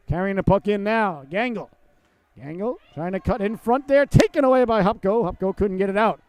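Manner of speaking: lively hockey commentary; energetic running game call; live play-by-play. Real, not acted. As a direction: follow the puck, lifting on the turnovers.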